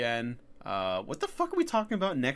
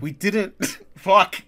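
laughing mock panic; 6 semitones higher, 7 dB louder than usual. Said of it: "And they're like".

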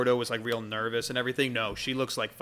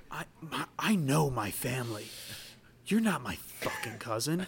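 threatening Dragonborn; 4 semitones higher than usual. Acted. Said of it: "and goes".

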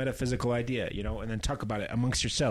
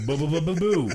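mock ghost boo; 6 semitones higher, 6 dB louder than usual. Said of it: "Oh, boo".

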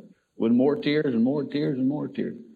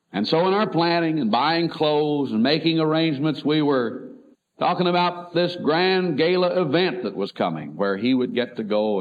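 higher and brighter, selling a grand event; upbeat build-up; 6 semitones higher than usual. Retold or imitated. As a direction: pitch it as a big gala. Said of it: "like it's something wonderful".

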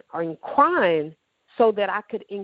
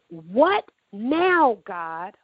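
retold scream; 3 semitones higher, much slower than usual.

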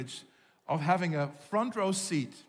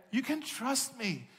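soft, slow and higher, as God reassuring; gentle reassurance; 5 semitones higher, 5 dB quieter, slower than usual. Acted. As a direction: reassure them tenderly, unhurried. God reassuring the listener, voiced.

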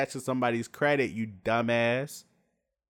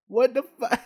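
laughing; 11 semitones higher, 5 dB louder than usual. Real, not acted. Laughing shout at the story.

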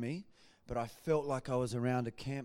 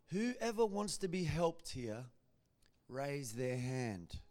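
a slow, hushed pastor's invitation; slow quiet pastor; 5 dB quieter, slower than usual. Retold or imitated. Pastor softly inviting the congregation, slow and hushed. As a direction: draw each word out softly, like a preacher. Pastor calls people forward.

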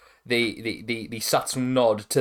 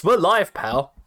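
Jim Ross; 5 semitones higher, 4 dB louder, slower than usual. Retold or imitated. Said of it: "in the words of Jim Ross".

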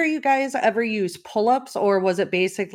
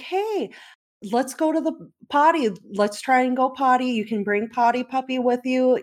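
put-on coaxing toddler; 5 semitones higher than usual. Mom coaxing toddler to potty.

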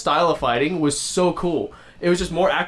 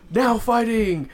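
higher, hammed-up ring call; mock announcer call; 7 semitones higher, much slower than usual. Announcer introducing the next fighter, mock announcer call.

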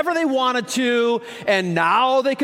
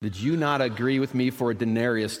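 gentle master; 11 semitones lower, 5 dB quieter than usual. Acted. Vineyard master calmly answering a jealous worker, low and soft. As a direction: answer the grumbler quietly, like a patient master.

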